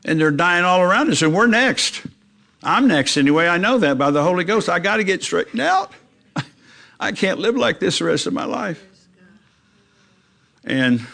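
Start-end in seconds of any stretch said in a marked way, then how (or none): 0.0-8.8 higher, pleading with a hint of tears; retold tearful plea. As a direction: beg your friends, close to tears. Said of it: "And then I started to cry".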